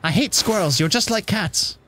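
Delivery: cranky impression slipping into posh; very posh accent. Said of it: "suddenly turn very posh".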